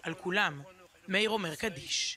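measured, restrained news-feature narration; documentary voice-over. Acted. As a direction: narrate a solemn memorial report, evenly. Recorded report narration voice-over.

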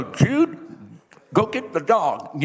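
high call out the side of the mouth, cigarette between the lips; mom with a cigarette. Retold or imitated. Mama calling her son around a cigarette, mouth-corner voice. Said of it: "she'd have a cigarette right here".

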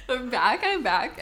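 stuffy nose after blowing it; blocked nose. Real, not acted. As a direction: talk through a clogged nose. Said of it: "I still sound like I'm clogged up".

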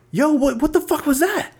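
high, incredulous retold outburst; stunned disbelief. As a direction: act floored by what you just saw. Disbelief at friend's switched-off tears.

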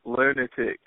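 Aussie "Lunatic." with a flat open "u"; Australian accent. Shown as a demonstration. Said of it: "attempt to say lunatic like you said it".

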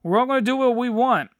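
fast, sarcastic singsong; mocking everyone getting along; mock pretend harmony. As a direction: rattle it off mockingly. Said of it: "pretend like".

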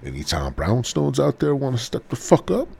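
loud, rising call-out; hammed-up fight call; mock challenge.

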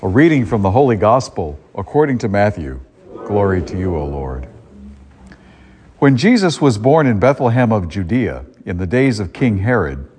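solemn liturgical proclamation; Gospel reading. Acted. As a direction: read it like scripture at Mass.

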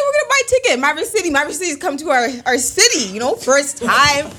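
pumped about the concert; excited. Retold or imitated. Friend retelling a ticket plan, hyped and high.

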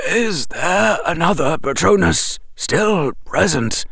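put-on clear, calm old wizard; clear wise old wizard. A narrator's reading. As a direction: ask clearly and calmly. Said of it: "said clearly".

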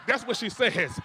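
laughing while repeating it. Real, not acted. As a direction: chuckle through the words. Laughing at the prophecy.

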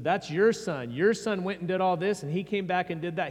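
mildly acted accusation, leaning hard on "your"; angry older brother. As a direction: push it out like an offended brother disowning his sibling. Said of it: "he was angry and that he refused".

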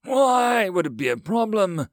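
high, loud, outraged echo of a question; incredulous repeat. A narrator's reading. Alien counselor repeating the human's question, outraged. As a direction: throw the question back in outrage. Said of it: "Lazi repeated before hissing".

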